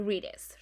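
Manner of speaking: "readers" with an untrilled R; soft single R. Shown as a demonstration. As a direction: start "readers" on a light r, no roll. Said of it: "es como una R".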